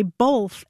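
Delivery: "both" said as "bolth", L before the th. Retold or imitated. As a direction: imitate people who slip an L into "both". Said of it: "they will swear that there's no L".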